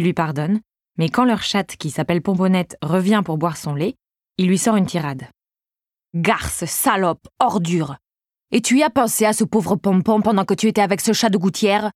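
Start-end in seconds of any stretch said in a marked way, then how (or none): 6.1-11.9 put-on lightly done Marseille accent, Pagnol baker scolding the cat; a half-hearted Marseille accent, playing the baker; mild Marseille accent. Narrator mimics Pagnol's baker scolding his cat, mild Marseille accent. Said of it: "mon accent marseillais n'est pas génial".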